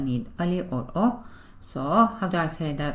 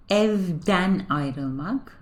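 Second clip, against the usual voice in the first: slow model pronunciation; much slower than usual. Shown as a demonstration. Teacher models new verb.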